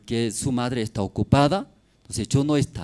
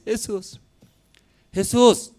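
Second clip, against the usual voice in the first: calling Jesus again, high; pleading mother; 9 semitones higher, 4 dB louder, slower than usual. Acted. Mother begging Jesus for help, high plea. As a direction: beg him to turn around.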